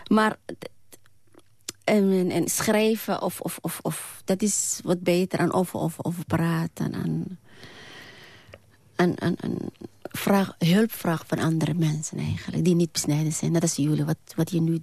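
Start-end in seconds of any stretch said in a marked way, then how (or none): 1.8-10.5 zoekend, met herhaalde woordjes; licht stotteren. Real, not acted. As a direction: stumble and repeat small words while searching. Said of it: "dat ik stotter een beetje". (licht stotterend, haperend zoeken naar woorden)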